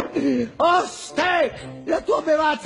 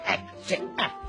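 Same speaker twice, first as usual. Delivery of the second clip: whispering; 7 dB quieter than usual. Acted. Wolf sneaking into kennel.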